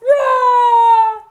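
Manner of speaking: threatening troll. Acted. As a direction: roar it high and drawn out. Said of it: "said the troll".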